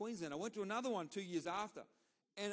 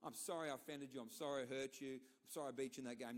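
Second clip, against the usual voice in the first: mock apology; 4 semitones lower, 4 dB quieter than usual. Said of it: "No, I didn't say that".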